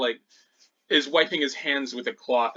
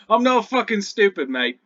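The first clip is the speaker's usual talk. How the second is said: loud, high goblin retort; indignant goblin; 8 semitones higher, 8 dB louder than usual. Acted. Goblin jailer refusing a prisoner's bait, loud and indignant. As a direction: push back loudly in goblin voice.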